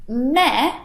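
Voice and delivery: unimpressed "Meh"; bored "Meh"; flat meh. Shown as a demonstration. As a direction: shrug it off with "Meh". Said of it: "and the word meh".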